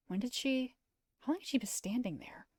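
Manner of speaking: breathless whisper to himself; hushed, alarmed aside; startled whisper. Acted. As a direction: whisper it, caught off guard.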